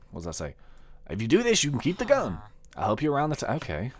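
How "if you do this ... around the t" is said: mild, badly faked cowboy twang; slightly raised mock cowboy voice; terrible cowboy accent. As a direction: read it as an amateur cowboy. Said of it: "my terrible cowboy accent".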